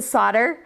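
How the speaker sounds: "solder" with the L silent; "solder" rhyming with fodder; American pronunciation of solder. Shown as a demonstration. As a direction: say "solder" as SAH-der. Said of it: "we pronounce it solder".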